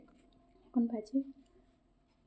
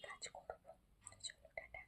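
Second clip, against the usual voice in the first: hushed goodbye whisper; 18 dB quieter than usual. Real, not acted. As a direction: whisper softly so nobody wakes. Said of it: "আস্তে আস্তে কথা বলছি".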